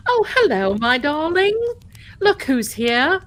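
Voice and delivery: high, loud, hammed-up darling greeting; put-on delighted hostess voice; gushing greeting. Greeting an arriving viewer theatrically.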